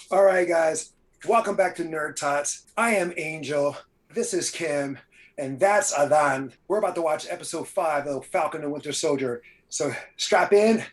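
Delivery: punchy host intro into countdown; show host intro. Acted. Host welcoming viewers to the watch party, announcer intro.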